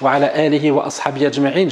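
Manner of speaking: quick formulaic blessing, recited fast; rapid Arabic invocation. Acted. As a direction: rattle off the opening prayer. Opening invocation.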